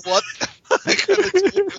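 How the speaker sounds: slow, then squeaking high; hammed-up fake alarm; mock panic. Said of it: "I'm like".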